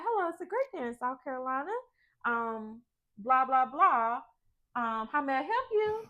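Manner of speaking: lightly put-on cheerful work greeting; a hint of the office phone greeting; mom's phone voice. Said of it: "She'll be like".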